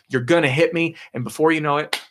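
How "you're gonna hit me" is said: high, raised cry of alarm; cursing yell. Retold or imitated. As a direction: yell as the crash comes. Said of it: "He's cursing at him".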